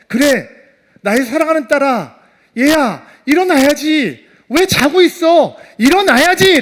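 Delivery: loud, high, rising urgent call; father calling his daughter awake with full conviction; impassioned faith. Acted. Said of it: "라고 하는 믿음을 가졌을까요?".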